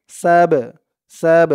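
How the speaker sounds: "সাব" with a bouncing release on the b; qalqala. Shown as a demonstration. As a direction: push the final b of "সাব" out with a small echo. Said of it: "একটু ধাক্কা দিয়ে পড়তে হবে". ("সাব"-এর বা-তে ধাক্কা দিয়ে কলকলা)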